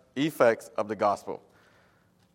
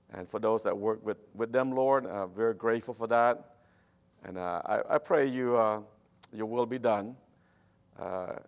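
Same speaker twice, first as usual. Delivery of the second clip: prayer. Acted. Pastor prays quietly.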